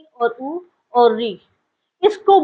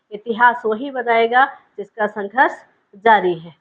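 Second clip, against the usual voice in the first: poem recitation. Acted. Recites a poem opening the lesson.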